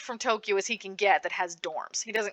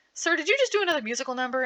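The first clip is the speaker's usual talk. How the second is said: goblin sidekick; 7 semitones higher, much faster than usual. Retold or imitated. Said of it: "the goblin looks at him and says".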